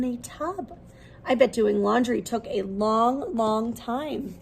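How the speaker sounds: lively, expressive picture-book read-aloud; reading to children. Acted. Teacher reading a laundry picture book to her class, lively storytelling. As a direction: bring the story alive for little listeners.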